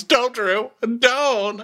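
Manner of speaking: high-pitched imitated warning; hammed-up cry to back off; mock angry. Sonya cutting Drew off, mock angry. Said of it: "You're so angry".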